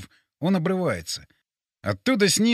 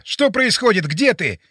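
loud, high-starting urgent questions; alarmed raised voice; yelling in alarm; 5 semitones higher, 6 dB louder than usual. A narrator's reading. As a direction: demand an answer from someone unseen. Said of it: "заорал я".

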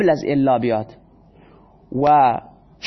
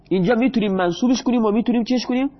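ordinary talk, nothing marked

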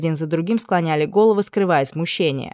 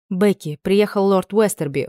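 cold announcement; 3 semitones higher than usual. Acted. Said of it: "холодно сообщила леди Скай".

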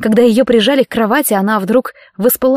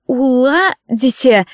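slow, faltering, scared question; stammering in fright; 2 semitones higher, much slower than usual. Acted. Kathryn, pinned by the professor, stammers in fright. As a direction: stumble over the word in fear. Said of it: "запинаясь".

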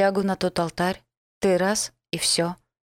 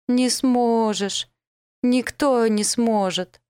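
loud, high, slow wail through sobs; sobbing cry; 5 semitones higher, 4 dB louder, much slower than usual. Acted. Girl sobbing at the elf that nobody can save her, loud and slow. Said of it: "прорыдала".

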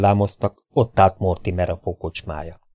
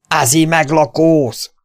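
slow threat; 8 semitones higher, 4 dB louder, slower than usual. Acted. Davy threatens the stranger.

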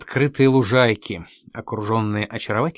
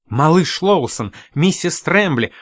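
higher, calling out "миссис Трэмбли" with a falling close; glad greeting; 5 semitones higher, slower than usual. Acted. Host greets Lawson and Mrs Trembly, glad and raised. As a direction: warmly hail the arriving guests.

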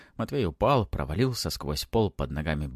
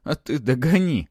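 loud, high strained retort; hoarse taunt; 6 semitones higher, 6 dB louder than usual. A narrator's reading. Boy kicks off the baron, taunting hoarsely. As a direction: dare the pursuer with a strained shout. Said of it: "прохрипел в ответ Матвей".

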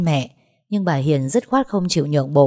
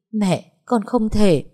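slow, higher plea; tearful refusal; 4 semitones higher, slower than usual. Acted. Daughter refusing to apologise to in-laws, tearful. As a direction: refuse her mother through tears, slowly.

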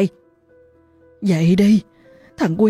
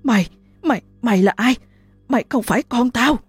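shout; 6 semitones higher, faster than usual. Acted. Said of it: "hét lớn".

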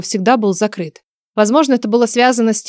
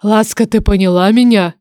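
"Ласка, ты поняла меня?" said firmly, with pressure; "ты поняла меня?" as an insistent check; pressing. A narrator's reading. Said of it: "С нажимом переспросил меня голос".

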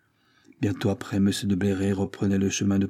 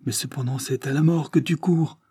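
higher alarmed cry; anguished cry; 5 semitones higher than usual. Acted. The duke to his son Henri, higher anguished cry. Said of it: "s'écria le duc".

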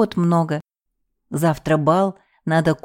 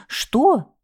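squeal; 9 semitones higher than usual. A narrator's reading. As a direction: shriek at the mouse. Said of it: "взвизгнула я".

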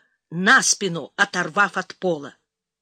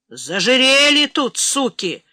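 loud, high-pitched cursing; furious accusation at raised volume; angry outburst; 4 semitones higher, 6 dB louder, slower than usual. A narrator's reading. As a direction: lash out at the guard. Rocketeer threatens guard with pistol.

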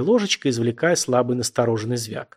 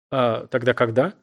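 mournful. Acted. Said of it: "спросил Виктор скорбно".

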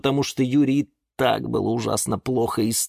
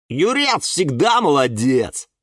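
slow, higher-pitched cheer; encouraging; 7 semitones higher, 4 dB louder, slower than usual. A narrator's reading. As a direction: chime in to cheer a friend up. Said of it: "очень хотел подбодрить Юру". (протяжно, подбадривающе)

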